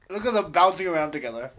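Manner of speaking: big, loud mock compere; hammed-up MC ogling the act; strip club announcer. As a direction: stretch the exclamation and let it boom.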